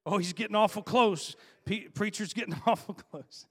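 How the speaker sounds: preacher teasing his congregation; imitating the congregation. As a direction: voice the squirming listener with a laugh. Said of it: "I can smell the smoke".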